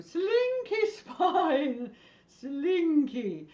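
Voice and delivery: slow, high sing-song falling away; playful drawn-out swoop; Julia Child. Acted. Teacher coaxing a group she can't hear, high sing-song. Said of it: "in your best Julia Child voice".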